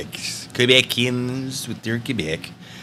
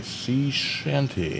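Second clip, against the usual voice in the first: slow drawn-out; 8 dB quieter, much slower than usual. Shown as a demonstration.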